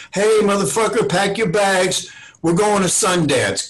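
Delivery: a friend barking big news then hanging up; Eddie on the phone. Retold or imitated. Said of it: "a call from Eddie going".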